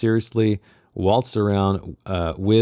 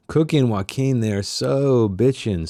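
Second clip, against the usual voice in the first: swooning; 4 semitones higher than usual. Acted. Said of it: "swooned Motella".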